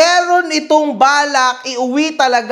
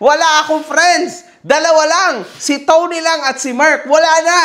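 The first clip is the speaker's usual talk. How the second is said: laughing; 5 semitones higher than usual. Real, not acted. Joking while still laughing.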